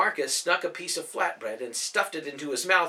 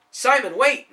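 much higher, louder call; 11 semitones higher, 9 dB louder than usual. Acted. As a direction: call after him down the street. Calling after a boy running off.

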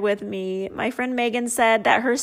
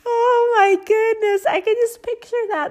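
delighted; 10 semitones higher, 4 dB louder than usual. Real, not acted. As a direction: gush with delight. Delighted by the story.

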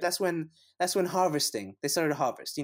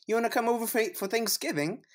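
mock Canadian invite; 5 semitones higher than usual. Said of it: "I'm the Canadian".

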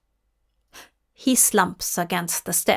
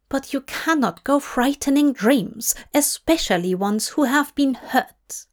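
Lucienne, worried aide; 4 semitones higher, faster than usual. Acted. Lucienne role voice.

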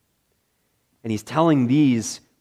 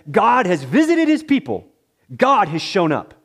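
higher and louder, a touch of excited praise; joyful praise; 6 semitones higher, 4 dB louder than usual. Retold or imitated. Crowd praising God after the raising, higher and louder. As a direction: lift it up in mild rejoicing. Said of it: "praises God and says".

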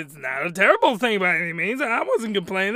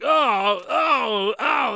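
drawn-out imitated moans; hammed-up "oh" moans; mock pleasure moans; 3 semitones higher, 3 dB louder, much slower than usual. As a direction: moan in mock enjoyment.

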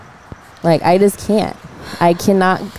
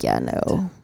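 deep flat no; 9 dB quieter than usual. Retold or imitated. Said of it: "I'm like".

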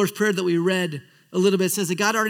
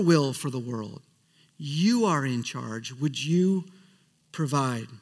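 prayer voice. Shown as a demonstration. Pastor praying to God in front of church, hushed prayer. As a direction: pray it simply, from the heart. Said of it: "a centering prayer is so important".

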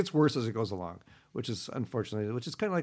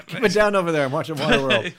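higher, louder grumpy complaint; cranky neighbor; 6 semitones higher, 9 dB louder than usual. Retold or imitated. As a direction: snap at the noisy room. Mocking a grumpy viewer.

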